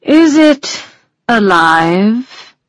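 high, curious unicorn; lightly voiced wondering unicorn. A narrator's reading.

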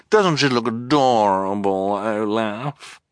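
fish for agreement with an affected purr; fawning villainess. A narrator's reading. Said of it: "purred Esme".

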